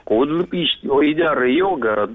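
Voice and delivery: backwards speech. Shown as a demonstration. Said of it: "умеешь поздравить задом наперёд".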